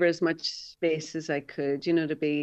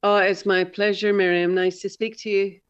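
Northern Irish Derry lilt; Derry accent; 3 semitones higher, 5 dB louder than usual. Real, not acted. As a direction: speak in your natural Derry accent. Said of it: "I can hear your Derry accent there".

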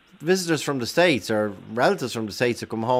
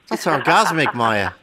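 excited; 5 semitones higher, 4 dB louder than usual. Real, not acted. Host raves about the candy.

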